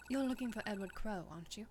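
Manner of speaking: put-on light British accent on the question. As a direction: ask it with a British lilt. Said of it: "You let me practice my British accent".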